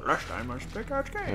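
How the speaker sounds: dramatic TV recap announcer. Pretend. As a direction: deliver it like a show intro. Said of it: "You can use that soundbite".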